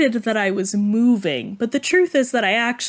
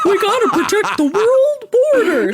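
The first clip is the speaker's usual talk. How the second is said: laughing; 9 semitones higher, 6 dB louder than usual. Real, not acted. Joking, laughing together.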